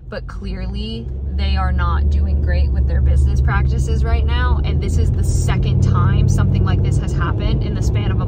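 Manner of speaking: loud, firm lecture to the realtors; firm retold telling-off. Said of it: "I was like".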